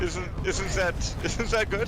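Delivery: put-on giggly, naive German accent with Danish lilt; German accent, Danish flavor. Describing a viral cat picture, German-Danish accent. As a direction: play a German tickled by the internet, accent thick. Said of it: "a straight German without a little Danish flavor".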